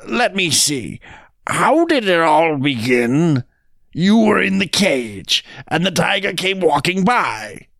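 high, slow working-out; muddled jackal. Acted. Jackal retells the tale wrongly, high and bewildered. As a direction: piece it together in put-on confusion.

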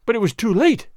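the crowd crying out with glee; excited shout. Acted. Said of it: "shouted the crowd excitedly".

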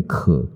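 可 said with the throat moving; voiced ke sound. Shown as a demonstration. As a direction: show 可 with voice from the throat. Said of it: "如果我们念可".

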